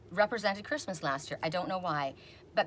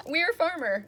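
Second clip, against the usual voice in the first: laughing repeat; 10 semitones higher, 6 dB louder, slower than usual. Retold or imitated.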